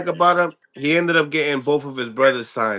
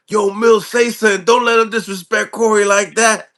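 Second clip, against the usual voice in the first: reading out the chat; 8 semitones higher, 6 dB louder than usual. Retold or imitated. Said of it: "I had the chat".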